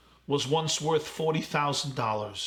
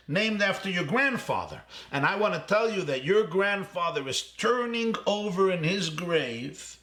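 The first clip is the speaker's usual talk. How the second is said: higher, mildly heated retelling of a scolding; a touch of indignant accusation, voice pitched up; retold angry caller; 3 semitones higher than usual. Angry stranger phoning the bank chairman, mild mock anger. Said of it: "He was so angry".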